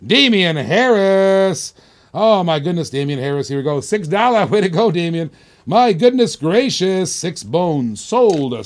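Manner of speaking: loud, punchy auctioneer call counting down the clock; live auction hype; auction countdown call. Acted. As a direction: hype the bidders as the seconds run out. Auctioneer countdown calling sales.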